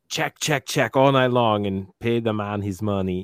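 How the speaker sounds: hammed-up Russian accent, playing the card shark; bad Russian accent. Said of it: "my crappy accent".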